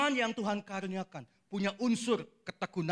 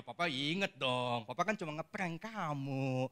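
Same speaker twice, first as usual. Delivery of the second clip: teasing father; 2 semitones lower, slower than usual. Acted.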